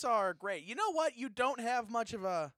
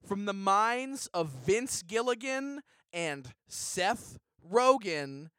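hyped pitchman promo voice; cheesy promo announcer; ad read; slower than usual. Acted. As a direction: sell the show like a TV spot. Reads a comedy ad.

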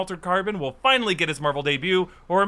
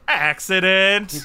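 slow, falling, knowing "Accident."; ominous repeat; 2 semitones higher, 4 dB louder, much slower than usual. Acted. Mocking the barn accident story, slow knowing repeat. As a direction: drag out "Accident." slowly with a suspicious drop.

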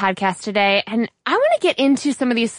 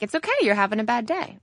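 kind reassurance; 5 dB quieter, faster than usual. Retold or imitated. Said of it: "were so kind in saying".

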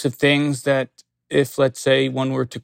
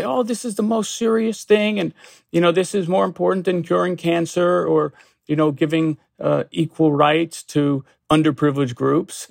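higher-pitched imitation of over-earnestness; mock seriousness; 4 semitones higher than usual. Attorney imitating someone who takes petty complaints too far, mock serious. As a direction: pretend it is gravely important, pitched up at first. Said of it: "be so serious and say".

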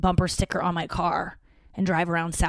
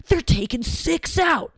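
higher, slow mock-outraged complaint; mock outrage; 9 semitones higher, slower than usual. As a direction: act scandalized at being shortchanged. Mimics outrage at deductions.

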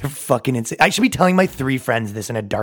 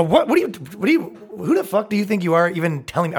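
mock outraged retort; 5 semitones higher than usual. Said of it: "I wouldn't say it like that".

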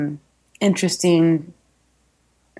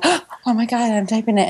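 higher, retold "oh my God" moment; gasping realization, played back for listeners; mock shock; 5 semitones higher than usual. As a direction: act lightly aghast at yourself.

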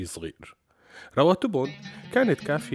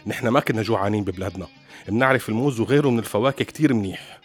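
louder, indignant retort; heated reply; 6 dB louder than usual. Retold or imitated. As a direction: snap back, offended. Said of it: "ورد وهو محتد".

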